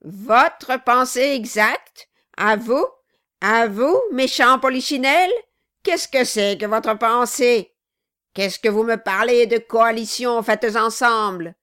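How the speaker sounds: loud, scornful, accusing; furious dwarf. Acted. Quilp rounds on Brass in a loud scornful rage. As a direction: spit the questions back.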